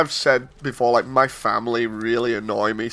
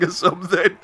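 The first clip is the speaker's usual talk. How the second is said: laughing; 3 semitones higher than usual. Real, not acted. Laughing at uncle's cheap computer.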